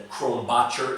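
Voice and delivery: Krombacher said the American way, not the German way; American pronunciation. Shown as a demonstration. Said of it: "I'm just gonna pronounce it like an American".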